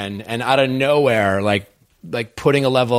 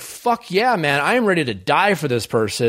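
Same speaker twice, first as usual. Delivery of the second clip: lightly hammed-up eagerness; mock gung-ho contestant; 2 semitones higher than usual. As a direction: pitch jumps up on the opening cheer. Voicing an eager contestant's vow.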